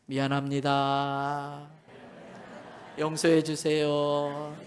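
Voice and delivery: slow, earnest, deliberate; sincere apology to the neighbour. Shown as a demonstration. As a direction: say it to your neighbour slowly. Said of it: "우리 옆 사람 보고 연습합시다".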